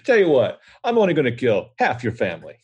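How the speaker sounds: smug virus making a generous threat; cheerfully menacing germ; cute germ voice. Pretend. The virus voice makes an offer.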